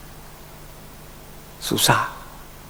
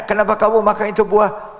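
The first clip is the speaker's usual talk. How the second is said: questioning voice; 7 semitones higher than usual. Acted. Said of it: "Istrinya ditanya".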